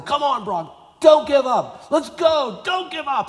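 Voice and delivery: high, loud coach yell urging him on. Retold or imitated. Coach yells at Brock crawling the field, high and loud. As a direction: scream encouragement at an exhausted player. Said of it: "the coach who starts yelling louder at him".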